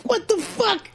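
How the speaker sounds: high, laughing what the fuck; laughing disbelief. Real, not acted. Teller reliving the shock, laughing through the words. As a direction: squeak it out through real laughter. Laughing while quoting himself.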